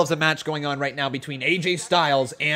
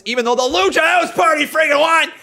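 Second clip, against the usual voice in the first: frustrated outburst; 11 semitones higher, 7 dB louder than usual. Real, not acted. Annoyed at Lucha House Party win.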